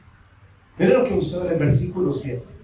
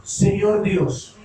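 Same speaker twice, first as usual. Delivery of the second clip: slow fervent confession; slower than usual. Acted. ¿Sabe qué está diciendo David ahí?.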